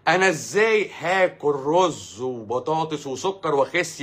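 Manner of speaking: mock an incredulous questioner, dragging the words; exaggerated, drawn-out doubting question; mocked objector. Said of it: "فتلاقي واحد يطلع لك يقول لك".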